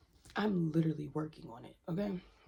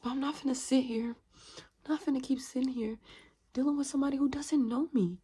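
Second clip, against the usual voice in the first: loud, raised-pitch refusal; defiant refusal; 5 semitones higher, 8 dB louder than usual. Real, not acted. Refusing to deal with someone who misjudges her, defiant.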